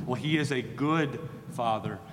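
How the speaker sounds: "good" leaned on, held a little longer; stress on good. Shown as a demonstration. Preacher to children of God, stressing "good". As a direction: press the word "good" in "a good father". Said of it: "we have to emphasize that word good".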